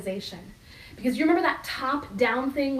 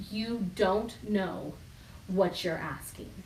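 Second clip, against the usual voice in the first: patient Jesus; 2 semitones lower, 5 dB quieter, slower than usual. Acted. Jesus answers disciples patiently.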